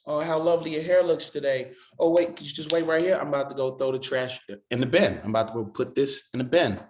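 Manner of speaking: polite British voice, starting high then settling; British politeness. Retold or imitated. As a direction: turn on courteous British charm for a friend's mum. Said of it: "I start talking like that to".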